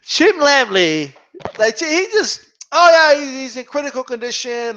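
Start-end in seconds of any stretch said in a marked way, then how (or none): 2.7-4.8 imitating a breezy announcer, tossed off; mock nonchalance. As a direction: rattle it off like it's no big deal. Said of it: "like, like nothing. Like, it's just, like, no big deal".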